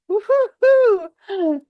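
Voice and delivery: high, slow, loud drawn-out woo-hoo; thrilled whoop. Real, not acted. Coach picturing the audience getting chills, a loud slow whoop. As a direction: whoop as if you just got chills. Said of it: "thrilled exclamation about chills".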